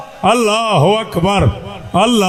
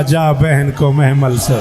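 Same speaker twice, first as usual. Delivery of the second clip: Husain's command; 7 semitones lower than usual. Acted. Husain orders Akbar to help his sister down, low commanding shout. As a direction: bark the order down at the son. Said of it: "हुसैन ने उसी अकबर से कहा".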